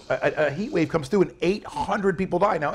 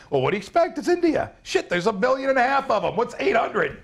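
higher-pitched mocking shrug; mock dismissiveness; 5 semitones higher than usual. Co-host throws callous remarks back at laughers, mock dismissive. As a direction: mimic someone callously brushing it off.

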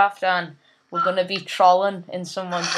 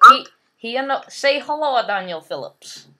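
thick put-on Russian accent, broken English; heavy Russian accent menace; 3 semitones higher than usual. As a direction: play a comic Russian gamer with a heavy accent. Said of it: "Shut up, talking like that".

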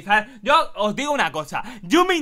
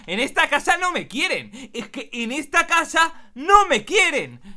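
higher, melodramatic wail of self-pity; hammed-up complaint; 6 semitones higher than usual. Rescued cat feels unloved at home, mock wailing. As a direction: wail it like a soap-opera victim.

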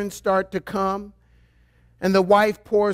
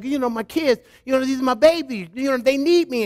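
lightly voiced insistent mother, higher pitch; a hint of doting mother, pitched up; mothers' protest; 5 semitones higher than usual. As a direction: imitate a mom pleading for her kids. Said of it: "You're like".

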